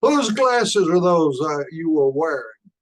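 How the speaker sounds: put-on a startled teacher pressing the boy; surprised teacher.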